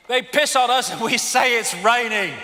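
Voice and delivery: saying it through a laugh. Real, not acted. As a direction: chuckle the line out.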